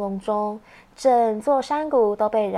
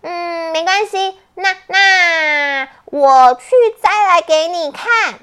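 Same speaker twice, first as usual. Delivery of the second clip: put-on reassuring child voice; 6 semitones higher, 8 dB louder than usual. Jisaiya reassures Ouqi.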